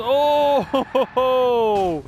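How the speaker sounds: loud, slow laughing ho ho ho; laughing outburst. Real, not acted. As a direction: laugh it out at the spin. Car spins, commentator laughs.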